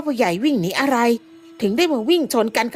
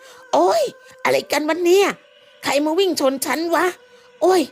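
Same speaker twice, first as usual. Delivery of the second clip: higher, cursing after a collision; angry cursing; 6 semitones higher than usual. Acted. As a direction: swear at whoever knocked you down. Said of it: "ด่าออกมาด้วยความโมโห". (ด่าด้วยความโมโห)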